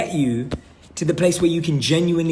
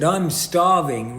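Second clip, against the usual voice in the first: slow starving; much slower than usual. Retold or imitated. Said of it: "How many times have you said".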